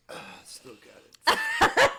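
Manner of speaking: high laughing brag, slowed down; laughing boast. Retold or imitated. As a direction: gloat through a laugh. Bragging about winning at pool.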